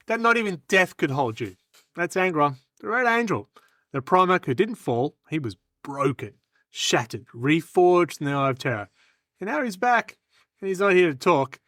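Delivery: scripted hero introduction with weighty pauses; dramatic trailer-like telling; dramatic lore pitch. Acted. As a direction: build the legend phrase by phrase. Performs timed recruitment speech.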